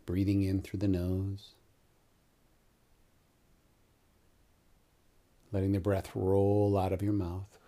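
calm meditation guide, long pauses between phrases; guided meditation. Real, not acted. Yoga teacher guiding listeners into Nidra with eyes closed, calm meditation voice. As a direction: lead them gently into the breath, unhurried.

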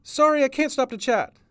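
high, loud hurried apology; harried call on the run; panting, rushed. A narrator's reading. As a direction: toss it back while running past. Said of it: "panted Cat, rushing past".

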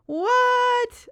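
high, loud, drawn-out disbelief; real high-pitched surprise; amazed. Real, not acted. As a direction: exclaim it in happy astonishment. Amazed reaction to her listener stats.

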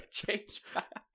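high, slow system voice; high mock computer commands. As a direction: spell out the commands like a glitching machine. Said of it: "He's like".

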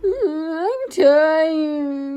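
mock crybaby whimper; mocking whine. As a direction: parrot the whine back, sobbing. Coach mocks trainee's whining.

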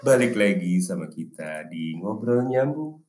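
slow train station announcer voice; over a PA system. Shown as a demonstration. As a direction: announce it like a train platform call. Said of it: "kayak suara pengumuman kereta".

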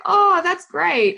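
high, drawn-out mock marvelling; impressed reaction. Mum reacts to her son copying her, impressed.

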